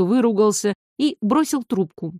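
ordinary delivery

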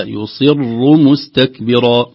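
"يصر مستكبرا" slowly, with heavy saad and raa. Shown as a demonstration. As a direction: read "يصر مستكبرا" slowly with full heaviness. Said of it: "نقول يصر". ("يصر مستكبرا" بتفخيم الصاد والراء ببطء)

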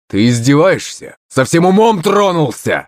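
high, incredulous angry outburst; thundering outrage. A narrator's reading. Prince rages at father over the phone, thundering. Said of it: "загрохотал Демидов".

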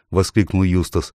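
usual speaking voice

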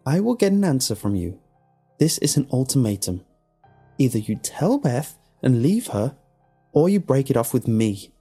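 high, emphatic, self-satisfied ultimatum. A narrator's reading. Alex after swallowing Tom's ring, satisfied. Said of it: "She said in satisfaction".

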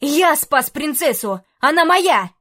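rising to a high, loud shriek; possessive outburst. Acted. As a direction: scream that she belongs to you. Knight shouts claim. (истеричный крик рыцаря)

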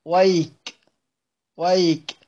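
ويك said "wayk", ending on k; stop on the kaf. Shown as a demonstration. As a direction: halt on the k of ويك with no vowel after it. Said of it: "وقيل بالوقف على الكاف". (ويك بالوقف على الكاف)

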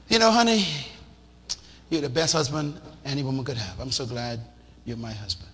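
supportive wife. Retold or imitated. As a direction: soothe him gently.

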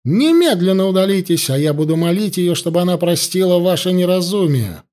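высоко, повелительно и резко; приказывает, не терпя возражений; властно и резко. Acted. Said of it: "голос вновь зазвучал властно и резко". (жрица гонит воинов властным голосом)

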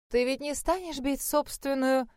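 breaks off mid sentence; cut off mid word. A narrator's reading. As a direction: stop short mid word. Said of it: "осеклась на полуслове".

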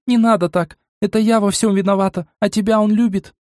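высокий громкий крик «Не надо!»; кричит, останавливая сестру. A narrator's reading. Мила продолжает кричать. (высоким голосом громко кричит)

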